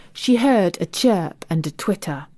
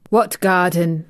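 surly grunt. Acted. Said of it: "grunted Weatherstaff, becoming surly".

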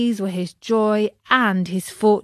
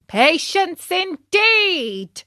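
high, slow scornful patience indeed; mocking shout; 10 semitones higher, much slower than usual. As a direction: drawl it out in angry mockery. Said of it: "shouted his master just then".

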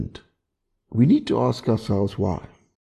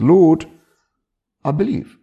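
a pleading cry, higher and louder, with a hint of tears; tearful cry; 7 semitones higher, 7 dB louder than usual. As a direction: cry it out like a desperate father. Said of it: "He cries out and says with tears".

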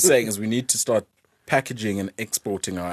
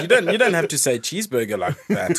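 laughing; 6 semitones higher than usual. Real, not acted. Laughing at friend's accent.

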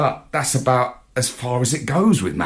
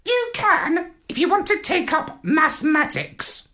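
high dry parrot quip. A narrator's reading. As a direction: needle the puppy, parrot-style. Parrot replies.

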